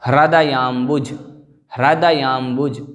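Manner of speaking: हृदयाम्बुज with the ह and रा clear; careful pronunciation. Shown as a demonstration. Teacher models हृदयाम्बुज for students to repeat. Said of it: "हा में रा".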